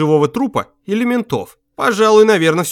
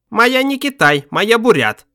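proud broken Russian, pitched up a little; a proudly stated mild accent; 9 semitones higher, 3 dB louder than usual. A narrator's reading. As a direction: announce it with pride, chest out. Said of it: "раздался гордый голос".

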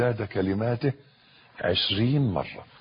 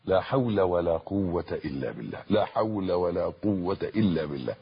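each word of لا حول ولا قوة إلا بالله stretched out clearly; calm deliberate recitation; slow and full; 3 semitones lower than usual. Shown as a demonstration. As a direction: savour every syllable, unhurried. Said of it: "بالطريقة اللي أنا بقولها دي".

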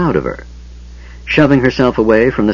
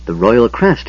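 strangled voice; 2 semitones higher, slower than usual. Acted. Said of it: "he said in a strangled voice".

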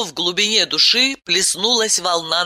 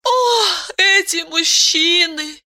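drooping; 13 semitones higher, slower than usual. A narrator's reading. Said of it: "поникла она".

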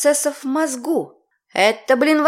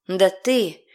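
spluttering with indignation; much slower than usual. Acted. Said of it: "пропыхтела, задыхаясь от возмущения".

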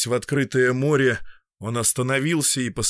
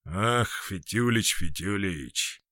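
rueful sigh; 3 semitones lower, slower than usual. A narrator's reading. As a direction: sigh it out regretfully. Khvostov, sad realisation.

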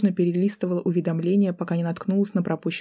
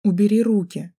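raised, louder panicked demand; seething, trembling; 3 semitones higher, 5 dB louder than usual. A narrator's reading. Student fighting off the man's hands, trembling anger. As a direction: order him off, frightened and angry. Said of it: "процедила я дрожащим голосом".

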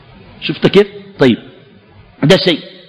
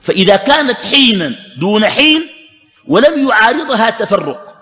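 measured classical recitation, pitched higher; formal text reading; 5 semitones higher than usual. A narrator's reading. Teacher reads the classical text to students, formal recitation. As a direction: read out each clause in raised pitch.

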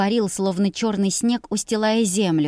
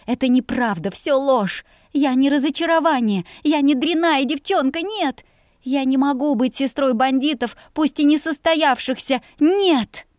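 higher, louder pleading protest; desperate denial; 7 semitones higher, 4 dB louder than usual. A narrator's reading. Girl denying she is a disappointment to her family. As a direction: fight back against the accusation.

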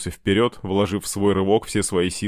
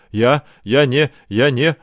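halting, higher, louder panicky stammer; shocked babbling; 5 semitones higher, 6 dB louder, slower than usual. A narrator's reading. Boy has just caused a death, babbling in shock. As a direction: stumble over the words in shock. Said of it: "бормотал Дима, хватаясь за голову".

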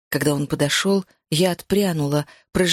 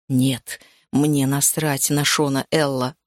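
lower, slower blunt denial; low and firm, dismissing it; male voice; 5 semitones lower, slower than usual. Acted. Hero replies to heroine. (низкий твёрдый мужской голос)

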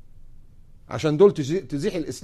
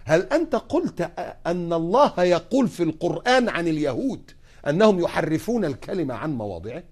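judge's question. Retold or imitated. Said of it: "القاضية تقول لي".

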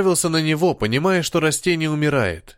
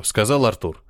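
plain reading voice

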